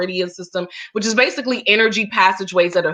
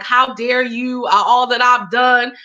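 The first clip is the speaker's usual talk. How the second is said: retold ego tantrum, slightly raised; mild indignant fit; 3 semitones higher, slower than usual. Guest voicing ego's protest at being fired, mildly indignant. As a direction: lightly act out a wounded ego protesting. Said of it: "ego was having a little bit of a fit".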